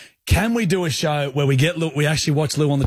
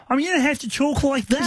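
John voice; 9 semitones higher than usual. Shown as a demonstration. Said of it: "You can't do John every time".

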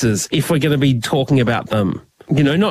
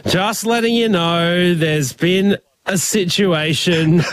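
mock apology email; slower than usual. Mock STD email, slowed.

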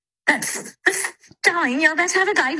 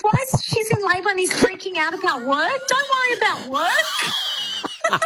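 exasperated retelling breaking into laughter; mock exasperation. Pranked friend retelling disbelief at caller, laughingly exasperated.

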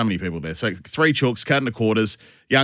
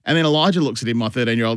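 usual speaking voice

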